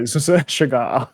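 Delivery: slow Scottish accent with a shushed S in "cigar"; Sean Connery. Shown as a demonstration. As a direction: do a Scottish "shigar", drawn out. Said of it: "say that in Sean Connery".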